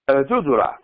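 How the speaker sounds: Juzura said with a clear final a, not Juzuru; corrected pronunciation. Shown as a demonstration. Teacher corrects the word for students. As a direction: carefully say El Juzura, ending on ah. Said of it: "we say Juzura".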